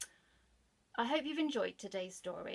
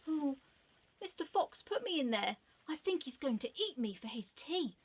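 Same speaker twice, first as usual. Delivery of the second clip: put-on boy's voice; 6 semitones higher than usual. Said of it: "said the boy".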